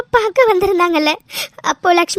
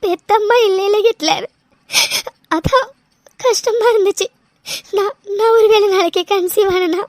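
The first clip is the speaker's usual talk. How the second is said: steady tearful voice, sniffling between phrases; a light weepy telling of missing her birth mother; crying. Acted. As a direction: keep the tears under every line. Cries through her story.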